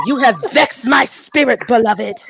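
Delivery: mock-solemn life-coach impression; put-on aggrieved coach voice; Iyanla. Friend joins the impression, hammed-up spiritual scolding. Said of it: "you gotta do the Iyanla voice".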